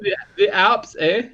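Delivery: high mock German accent. Answering the imagined German gamer, mock German accent. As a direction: chime in with a put-on German accent. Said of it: "German accents".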